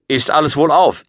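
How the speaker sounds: put-on high, eager boy's voice; young boy. A narrator's reading. Boy asking about King Arthur's court, eager.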